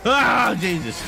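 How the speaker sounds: sudden loud high yelp of fright; startled yelp. Real, not acted. Player jolted by a sudden monster, loud and high. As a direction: jump at the scare and cry out. Jump scare in a game.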